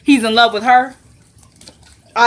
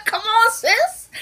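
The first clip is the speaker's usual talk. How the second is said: high, slow words through laughter; laughing; 14 semitones higher, much slower than usual. Real, not acted. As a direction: drag it out while laughing. Laughing at the abs.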